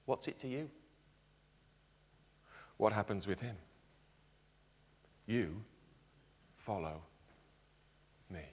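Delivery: soft, low, gracious but firm; quiet and kind, yet leaving no room to argue. Retold or imitated. Jesus answering Peter, softly, gracious yet firm. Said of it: "graciously yet firmly says".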